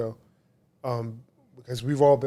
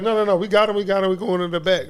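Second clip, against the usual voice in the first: store clerk; 7 semitones higher, 4 dB louder than usual. Retold or imitated. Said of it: "and then they'd be like".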